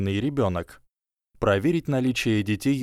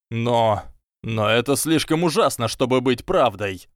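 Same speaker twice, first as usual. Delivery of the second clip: louder, pleading disbelief; desperate protest; 2 semitones higher, 4 dB louder than usual. Acted. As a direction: cry out that it can't be true. Draco protests in despair. (отчаянный протест)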